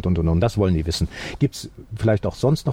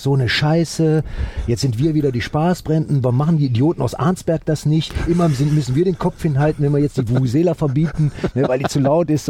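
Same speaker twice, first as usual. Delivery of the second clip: grumbling officials; 5 semitones higher than usual. Retold or imitated. Retelling officials cursing about the Vuvuzela ban, mock griping. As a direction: mimic annoyed officials complaining among themselves.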